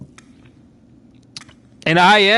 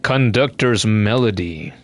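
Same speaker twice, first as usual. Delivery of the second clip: weary NPC voice; 7 semitones lower, 3 dB quieter than usual. Acted. Game elder addressing the pilgrim, lightly voiced and solemn. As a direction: read it as a tired dying elder. Reads game text aloud.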